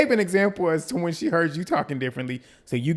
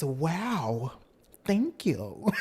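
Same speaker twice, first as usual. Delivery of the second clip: laughing thanks; 3 semitones higher, 3 dB quieter, much slower than usual. Retold or imitated. Stacey's mocking gushing thanks.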